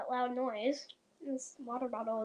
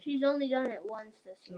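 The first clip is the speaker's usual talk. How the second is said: mouth full; 4 semitones lower than usual. Real, not acted. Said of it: "Let's not talk with our mouth full".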